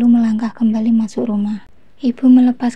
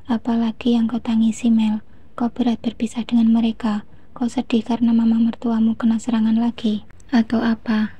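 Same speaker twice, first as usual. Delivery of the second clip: gentle, softer motherly asking. Acted. Mother gently asks her crying daughter, soft voice. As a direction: ask softly like a caring mother. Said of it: "tanya ibu dengan suara lembut".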